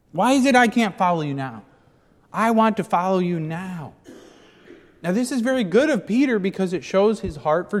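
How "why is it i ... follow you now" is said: higher, earnest plea; pleading. Acted. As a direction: voice Peter's longing to follow. Peter's plea restated.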